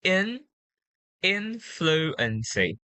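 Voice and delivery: IN alone and high, then slow influency; first-syllable stress. Shown as a demonstration. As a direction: lean on IN in influency, slowly. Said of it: "The stress will be put at the first syllable".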